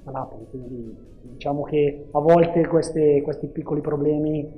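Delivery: phone-recorded interview audio; tinny cellphone recording; low quality stream. Real, not acted. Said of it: "ci scusiamo per la qualità dell'audio".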